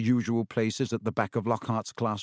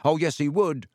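mildly raised, higher-pitched contradiction; loud retort; 4 semitones higher, 4 dB louder than usual. A narrator's reading. Ron contradicting Lockhart in class, loud retort. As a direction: butt in and contradict, a bit louder. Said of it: "even more loudly than Dean".

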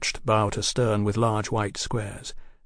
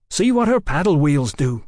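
higher voice full of wonder; wide-eyed amazement; marvelling; 4 semitones higher, 4 dB louder than usual. A narrator's reading. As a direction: marvel aloud like an eager lad. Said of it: "Tom marvelled".

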